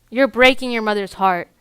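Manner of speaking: a touch of mock parental outrage; retold parental yelling. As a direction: lightly mimic a father's scolding. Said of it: "the screaming and the yelling".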